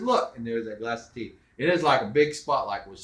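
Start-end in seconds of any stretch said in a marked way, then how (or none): 0.0-0.4 short loud high look; urgent command. Retold or imitated. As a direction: snap the word out, raised. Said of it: "I said".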